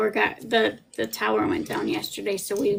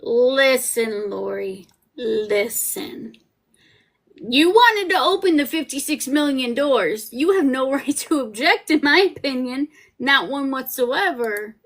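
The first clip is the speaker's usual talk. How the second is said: scolding; 3 semitones higher, 3 dB louder than usual. Real, not acted. Scolding Lori over objection.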